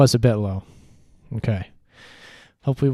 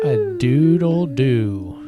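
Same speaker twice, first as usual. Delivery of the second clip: mock rooster crow; 3 semitones higher, 8 dB louder, much slower than usual. Echoing the rooster on the record.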